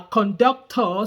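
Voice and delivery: slow "conductor" as "kon-dok-taw"; Nigerian pronunciation. Retold or imitated. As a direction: stretch "conductor" with round o vowels. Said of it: "like we say in Nigeria".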